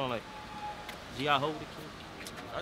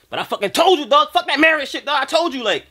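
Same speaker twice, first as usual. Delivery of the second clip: high, heated outburst; loud I-told-you-so; 13 semitones higher, 12 dB louder than usual. Acted. Friend dropping sympathy over the cheating, loud told-you-so. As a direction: burst out loudly, rubbing it in.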